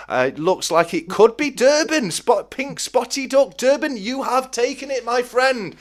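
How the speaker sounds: high, loud excited race call; race commentary. Acted. Host calling the duck race for viewers, excited and high.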